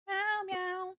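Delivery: high, soft kitty meows; playful meow. Pretend. Streamer meows at a chat viewer, playful. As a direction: meow like a small cat.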